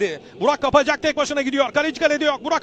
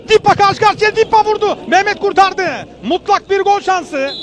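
excited commentary; 4 dB louder than usual. Real, not acted. Chance on goal, rising call.

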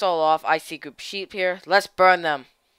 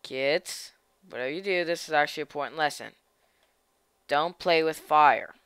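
mock serious lesson; 5 semitones lower, 4 dB quieter than usual. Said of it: "I'm serious here".

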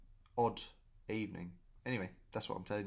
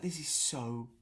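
weirded out; 7 semitones higher, 3 dB louder, much slower than usual. Retold or imitated. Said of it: "but I was just like".

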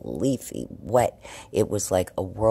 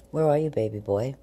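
higher sing-song call to a cat; 6 semitones higher than usual. Real, not acted. Owner looks for her cat, higher baby talk. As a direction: coo for the kitty to come out.

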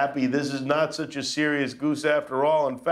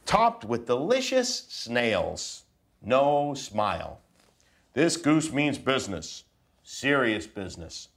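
put-on reading to children. Dad reading a picture book to his kids, mock serious. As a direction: read it solemn and serious to the kids.

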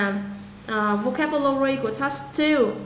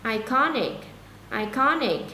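iconic stressed clearly on CON; teacher drilling iconic with marked second-syllable stress. Shown as a demonstration. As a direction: model iconic as i-CON-ic, hitting the middle. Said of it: "nhấn âm hai rõ ràng".

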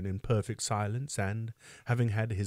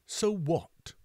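higher-pitched startled question; amazed; 8 semitones higher than usual. A narrator's reading. Beadle questioning the sobbing orphan, lightly acted amazement. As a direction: ask it in mild astonishment. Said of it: "inquired Mister Bumble in amazement".

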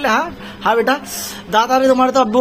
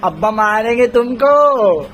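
playful mock threat; slower than usual. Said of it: "teasing baby with mock threat".

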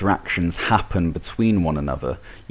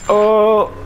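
surprised; 6 dB louder than usual. Real, not acted. Gamer reacting to the win.

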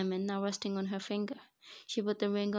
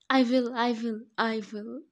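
terrified; 3 semitones higher, 9 dB louder than usual. A narrator's reading. Terrified priest agrees.

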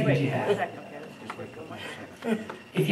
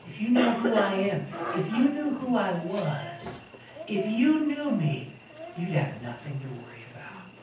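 gentle Christ; 7 dB quieter than usual. Retold or imitated. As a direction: reassure the frightened disciples softly. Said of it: "That's why he said".

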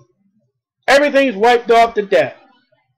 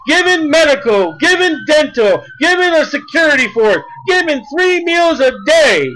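preaching shout; 4 semitones higher than usual. Real, not acted. Preacher shouts list climax.

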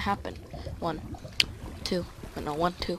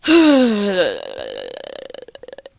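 loud drawn-out groan; 12 dB louder than usual. Real, not acted. Player alone in the game, loud drawn-out groan. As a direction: let out a loud groan that trails away. Loud outburst while playing.

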